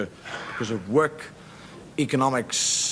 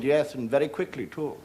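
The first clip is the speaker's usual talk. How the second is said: laughing. Retold or imitated. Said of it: "She said".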